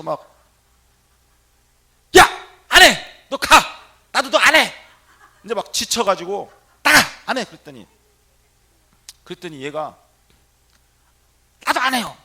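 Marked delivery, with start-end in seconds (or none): 2.2-4.7 loud, high bursts of refusal; angry shouting. Retold or imitated. Priest sending the rude young patient away, shouting angrily. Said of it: "화가 나는 거야". 6.8-7.4 shouted order, quickly dropping away; angry dismissal. Retold or imitated. Priest throwing the patient out, angry yell. 11.7-12.2 high, loud mimicked comeback; defiant shout. Patient yelling back at the priest, defiant.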